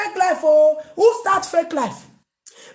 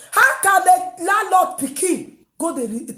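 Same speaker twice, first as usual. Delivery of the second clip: shouted question; 3 semitones higher than usual. Real, not acted. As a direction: shout it out in disbelief. Outraged rant.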